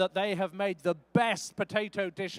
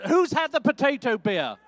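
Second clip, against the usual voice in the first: louder, livelier ask; 3 semitones higher, 4 dB louder than usual. Real, not acted. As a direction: push it out to get the crowd going. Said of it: "that's better".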